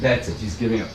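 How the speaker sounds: ordinary talk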